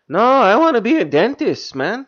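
light put-on Hispanic accent; a hint of Hispanic accent. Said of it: "one Mexican who didn't want".

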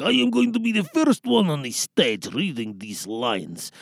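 put-on character voice claiming the stage; Menchik Majanovic. Cast member announcing being first on stage, character voice. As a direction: play an eager cast member reading lines. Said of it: "The first character we're gonna hear is Menchik".

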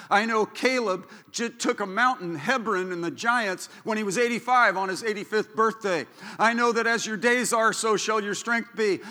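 normal talking voice

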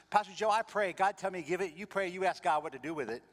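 simple firm answer from the friend; Charlie's voice. Retold or imitated. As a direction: caller tells pastor to pray, high and loud. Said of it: "Charlie's Korean".

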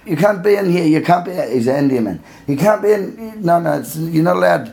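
put-on high-pitched Indian accent, insistent. Security guard stopping them at the slide, in an Indian accent. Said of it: "That's your impression of an Indian man".

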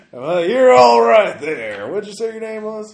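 a friendly local sizing up a stranger; high-pitched small-town old-timer; folksy old-timer. Acted. GM NPC voice, much higher.

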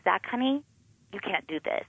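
quiet, steady motherly restraint; soft calm warning. Retold or imitated. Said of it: "I'm like".

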